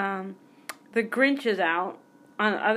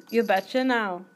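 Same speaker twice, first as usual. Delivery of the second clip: accidental lilt of Irish; folksy catchphrase sliding into a light Irish accent. Acted. Podcaster botching fifties slang, accidental mild Irish accent. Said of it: "Oh my God, now it's Irish".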